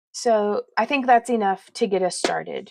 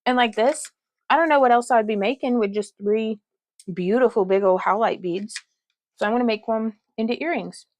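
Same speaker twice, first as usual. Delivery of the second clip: chewing while talking. Real, not acted. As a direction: mouth full of food. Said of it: "Please pardon me while I chew".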